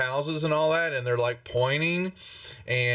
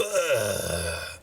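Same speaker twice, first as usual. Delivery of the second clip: long falling death groan; dying groan; 3 semitones lower than usual. Acted. Game master acts out a death, drawn-out groan. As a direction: groan it out as the man dies.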